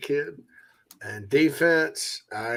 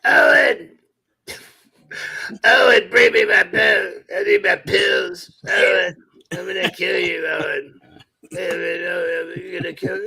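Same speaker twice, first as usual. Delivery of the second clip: put-on high, loud screeching old mother demanding her son; Mama impression; 6 semitones higher, 4 dB louder than usual. Host quoting the movie mother at her son. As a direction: yell at Owen like the bedridden mother. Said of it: "throw Mama from the train reference".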